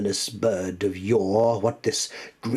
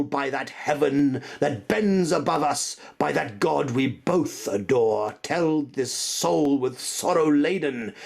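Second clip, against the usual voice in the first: raised, frantic plea; desperate pleading; 5 semitones higher than usual. Acted. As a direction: beg the demon bird for an answer. Speaker begs the raven.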